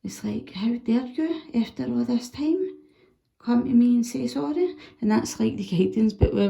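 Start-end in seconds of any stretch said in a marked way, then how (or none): 0.5-4.8 mock raging. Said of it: "you might feel a bit pure raging, infuriated".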